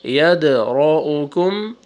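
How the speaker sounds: یدرؤکم with a bounced ق, full ra and a clipped hamza; qalqala and heavy ra. Shown as a demonstration. Teacher repeats the word showing each rule. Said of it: "جھٹکے کے ساتھ پڑھیں گے".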